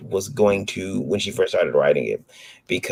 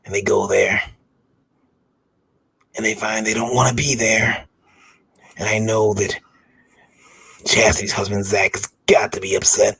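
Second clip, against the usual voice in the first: perv voice. Pretend. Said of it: "Do it in the perv voice".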